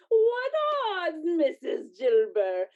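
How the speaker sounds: sharp high loud "What"; indignant shout. Acted. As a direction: fling the word back at them. Charwoman retorts to the others.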